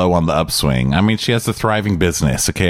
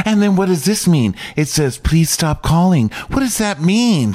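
mock confused mom; 9 semitones higher than usual. Mom confused over emails.

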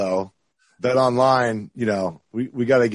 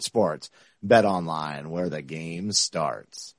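ad read voice; 2 semitones lower than usual. Acted. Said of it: "I love my ad read voice".

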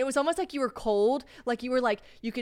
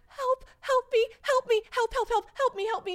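much higher, imitating a desperate cry for help; imitated panicked plea. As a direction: reenact her begging Chelsea for help in labor. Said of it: "you really were like".

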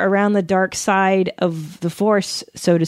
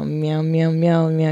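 nervous cat voice; 4 semitones lower, slower than usual. Pretend. Let me do me now.

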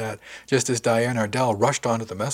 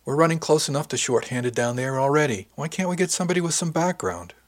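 exasperated, rising higher into the question; frustrated complaint; 5 semitones higher than usual. Acted. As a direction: complain about being short-handed. Swearing over inexperienced replacement, frustrated.

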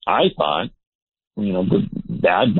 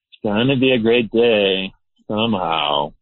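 half-hearted attempt at positivity; unconvinced pep talk to oneself; doubtful affirmation. Shown as a demonstration. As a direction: say it without much conviction, drawing out the end. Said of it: "but I might say it like".

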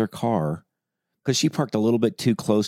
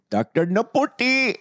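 mock voice; slower than usual. Names the doctor in odd voice.

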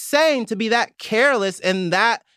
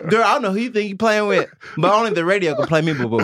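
sassy rapper imitation; faster than usual. Retold or imitated. A rapper snubs a girl who didn't text back, fast and sassy. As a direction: rattle it off, dismissive. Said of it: "Drake said that to a girl".

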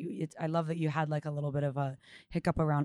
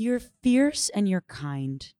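lightly voiced daughter, slow and emphatic; a touch higher and louder, drawn out like a child's pronouncement; daughter's declaration; 4 semitones higher, 6 dB louder, much slower than usual. Daughter telling mama what she is, lightly imitated and emphatic. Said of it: "She's like".

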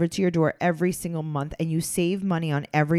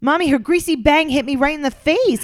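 put-on higher-pitched whiny little kid; child voice; 9 semitones higher, 5 dB louder than usual. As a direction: play a child complaining to mommy, dragging out the last plea. Voices a child pleading to mommy.

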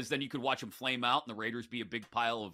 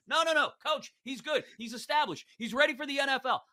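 mock pleading coach; 10 semitones higher than usual. Staff pleading with the owner.

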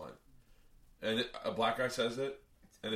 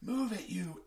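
higher-pitched mock white guy; 8 semitones higher, slower than usual. Man pranking the driver in public, mock white guy voice. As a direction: lightly put on a white guy's voice. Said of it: "in the perfect white guy voice".

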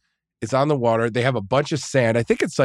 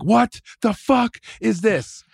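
higher, slow, drawn-out shocked whine; buddy's shocked squeal; 10 semitones higher, slower than usual. Retold or imitated. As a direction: play the soaked buddy squealing in disbelief. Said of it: "he's like".

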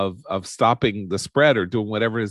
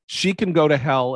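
angry; 5 semitones higher than usual. Real, not acted. Angry rant.

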